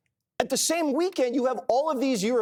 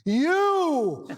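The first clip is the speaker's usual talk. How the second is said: accusing shout; 6 semitones higher than usual. Retold or imitated. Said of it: "she turns around and she says".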